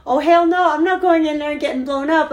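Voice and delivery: half-laughing fear of exploding; scared refusal. Retold or imitated. Retold fearful inner refusal.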